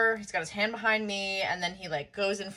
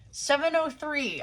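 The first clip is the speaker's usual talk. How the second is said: "Seven oh three" slow and raised in pitch; emphatic correction; 6 semitones higher, slower than usual. Real, not acted. Correcting her arrival time to viewers, "Seven oh three" slow and pointed. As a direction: spell out "Seven oh three" slowly, higher.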